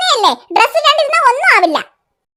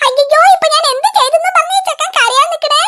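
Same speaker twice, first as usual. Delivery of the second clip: laughing grandma; 5 semitones higher than usual. Acted. Grandma laughs at crying boy.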